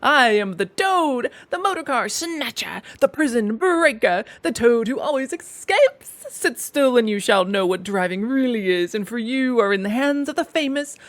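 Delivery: loud, slow, swaggering proclamation; boastful loud bragging. A narrator's reading. Toad boasting to the passengers, loud and reckless. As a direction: crow about yourself at full volume.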